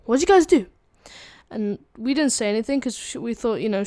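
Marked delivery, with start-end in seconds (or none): 0.1-0.7 high, loud mock questioning; loud put-on authority voice; interrogating principal. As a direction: confront them like a principal. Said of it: "she was like".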